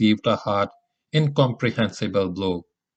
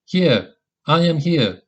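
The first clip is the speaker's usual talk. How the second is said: distant shout; 5 semitones higher, 3 dB louder than usual. A narrator's reading. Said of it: "a shout sounded faintly from a great distance".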